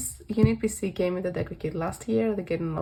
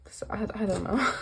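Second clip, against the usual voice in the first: whispering. Real, not acted. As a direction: whisper it to yourself. Whispered aside about the card.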